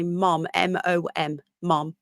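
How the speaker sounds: mom said with a Birmingham o, like the American word; Brummie mom. Shown as a demonstration. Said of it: "other than you guys that say".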